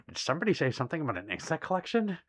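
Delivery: quick, laughing put-on voice repeating the line; mock dramatic reread. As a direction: ham it up like a sneaky collector. Repeats chat line performed.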